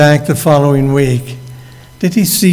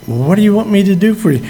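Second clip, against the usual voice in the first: quick urgent asking; 3 semitones higher, much faster than usual. Shown as a demonstration. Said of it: "and he's asking".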